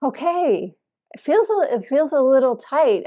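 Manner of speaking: mock-timid, tentative protest; tentative objection. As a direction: raise the pitch, object carefully to your teacher. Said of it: "I couldn't say that to him".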